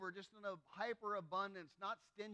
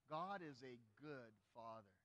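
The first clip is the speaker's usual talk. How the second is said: congregation recital; 7 semitones lower, 5 dB quieter than usual. Shown as a demonstration. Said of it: "Say that with me".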